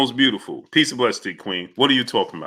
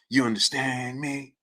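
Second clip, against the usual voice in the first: slow, softer mob-boss mimicry; cotton-mouthed Godfather imitation; 9 dB quieter than usual. Host mocking a clip, cotton-mouthed Godfather voice. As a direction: drag it out through a mouthful of cotton. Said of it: "he had cotton balls in his mouth".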